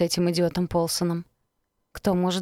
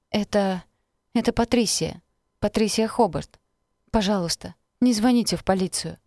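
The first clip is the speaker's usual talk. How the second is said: frightened pleading, voice raised; terrified pleading hostage; 3 semitones higher than usual. Acted. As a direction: beg not to call police. Patricia pleads, frightened, on phone. (испуганная мольба, голос выше)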